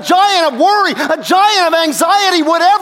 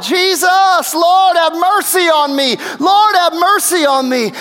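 the blind man's pleading cry, raised; crying out for mercy; 3 semitones higher, slower than usual. Retold or imitated. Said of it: "just crying out".

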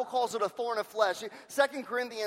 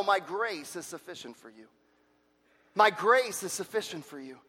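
gentle voice of God; 5 semitones lower than usual. Retold or imitated. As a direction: answer tenderly, like a reassuring father. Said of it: "And he says".

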